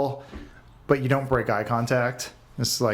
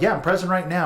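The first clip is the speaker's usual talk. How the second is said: mock high sarcastic reply; 8 semitones higher, 3 dB louder than usual. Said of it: "And I'm like".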